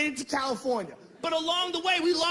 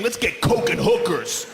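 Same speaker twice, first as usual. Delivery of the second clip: slow low party animal; 5 semitones lower, 6 dB louder than usual. Retold or imitated. Jimmy's wild suggestion.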